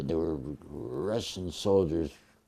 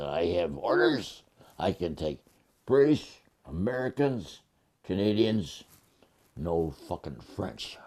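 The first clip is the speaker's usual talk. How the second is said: gruff sergeant. Retold or imitated. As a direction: imitate a gruff sergeant reeling off orders. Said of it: "He said in his gruff voice".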